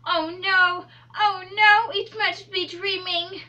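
put-on high, slow English-accented lament; slow dramatic English accent.

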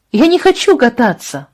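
high, loud stubborn cry; shouting refusal. Acted. Абра отказывается ехать. (упрямый крик Абры Джошуа в машине)

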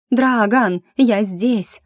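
loud, high call across the distance. Acted. Heroine shouting to the dragon across the ravine, calling loudly. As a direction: shout to Dragon to get his attention.

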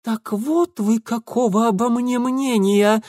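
high, tight, clenched fury; through gritted teeth. A narrator's reading. Lidia to Ingvar, through gritted teeth. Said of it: "сквозь зубы процедила она".

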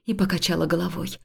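usual speaking voice

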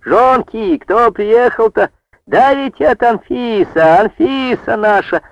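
high, slow calling across the field; joyful shout. A narrator's reading. Village women hailing Anfisa across the meadow, shouting gladly. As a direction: call out to her gladly from afar. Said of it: "подняли крик на всю пожню".

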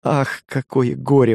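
a wife lamenting the bad news, drawn out; exclaiming in grief. A narrator's reading. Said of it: "воскликнула она". (медленно, горестно, выше)

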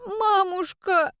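a drawn-out, high, sobbing call to mother; a girl's tearful wail, slow; girl sobbing out to her mother; sobbing cry. A narrator's reading. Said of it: "всхлипнула девочка".

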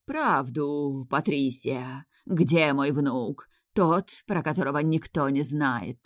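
slow, drawn-out spectre voice; hollow, stretched-out haunting moan; ghostly howl. Pretend. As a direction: wail like a ghost come for a soul. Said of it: "я продолжила импровизировать".

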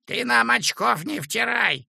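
high, sharp severe warning. A narrator's reading. Feldsher warns the lying woman, severe. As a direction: warn her off, twisted mouth. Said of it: "сурово, искривив рот, говорил Демьян Лукич".

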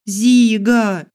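high loud desperate call. Acted. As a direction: yell the name across. Calling out desperately.

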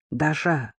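soft hushed phone voice; whispering on the phone. Acted. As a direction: murmur it into the phone. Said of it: "прошептал в трубку Георгий".

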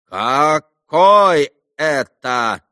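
loud, slow, affronted; doctor asking Alyosha who this is; indignant demand. A narrator's reading. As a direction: demand an explanation haughtily.

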